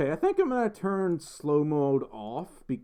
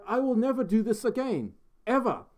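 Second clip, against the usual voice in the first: high-pitched fake Australian accent; bad Aussie accent; 8 semitones higher than usual. Shown as a demonstration. Streamer regretting the request, still in bad Aussie accent. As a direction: swear it off in a hammed-up Aussie voice. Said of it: "your best, best Aussie accent".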